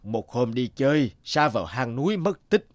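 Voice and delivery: lightly voiced old villager. Old villager answers Từ Thức.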